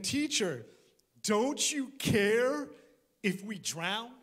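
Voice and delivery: a drawn-out anxious plea; frightened plea. Acted. Disciples waking Jesus in the storm, anxious plea. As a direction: beg the sleeping teacher for help.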